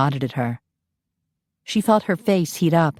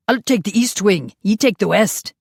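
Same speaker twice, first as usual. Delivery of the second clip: shouted; 4 semitones higher than usual. Acted. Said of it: "Dougal shouted at Phineas".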